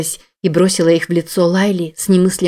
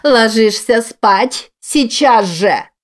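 angry shout; 5 semitones higher, much slower than usual. A narrator's reading. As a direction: yell the order, every word hammered. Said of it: "заорала Лайла".

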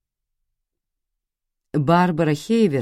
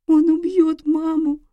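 put-on much higher small girl's voice; frightened child; 13 semitones higher, 4 dB louder than usual. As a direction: say it in fear into her brother's chest. Little girl terrified.

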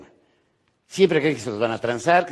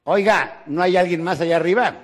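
loud plea; 4 semitones higher, 3 dB louder than usual. Acted. Man asks for someone else.

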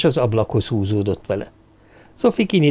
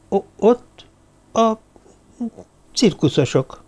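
desperate; 11 semitones higher than usual. A narrator's reading. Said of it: "kétségbe esetten nézett".

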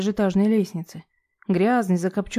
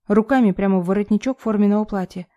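ordinary delivery

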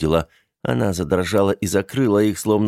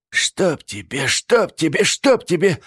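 rising, louder curse; spiteful cursing; 10 semitones higher, 3 dB louder, slower than usual. A narrator's reading. Aunt cursing the thief, spiteful. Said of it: "злобно бормотала она".

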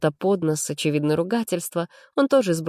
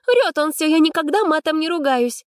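much higher, louder indignant protest; angry denial; 11 semitones higher, 4 dB louder than usual. A narrator's reading. Arina angrily denies swearing, higher and louder. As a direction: deny it hotly, eyes flashing. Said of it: "зло сверкнула глазами Аринка".

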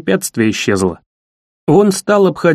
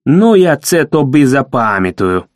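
vowing; 3 semitones lower than usual. Acted. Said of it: "клятвенно пообещал".

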